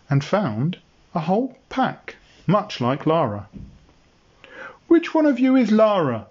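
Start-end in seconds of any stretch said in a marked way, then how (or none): 4.9-6.3 raised voice across a herd; calling out. Acted. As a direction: call it across to them. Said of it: "he called to the nearest three".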